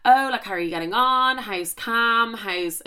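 breezy catch-up chat, like nothing happened; imitating him chatting away casually; chatty and upbeat. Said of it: "chatting away".

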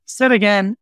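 slow, laughing through the words; laughing as he says it. Real, not acted. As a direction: chuckle it out, amused at himself. Repeats answer with a laugh.

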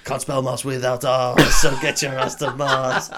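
slow, drawn-out mock pitch; mock slogan. Friend jokes with a slow cheesy tagline voice.

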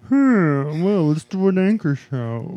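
jaw pushed forward; underbite. Shown as a demonstration. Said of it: "if you push your jaw forward".

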